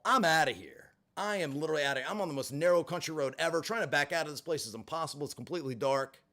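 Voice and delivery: normal talking voice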